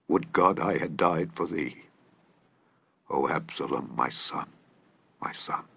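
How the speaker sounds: broken king mourning his son, dying away; weeping lament. A narrator's reading. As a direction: grieve it out, fading to a whispered sob. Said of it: "and wept".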